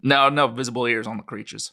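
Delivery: put-on a light New Mexico ranch-country accent; Roswellian accent. Witness describing the crash site to his interviewer, lightly Roswellian accent. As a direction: tell it like a Roswell local witness. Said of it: "my best attempt at a Roswellian accent".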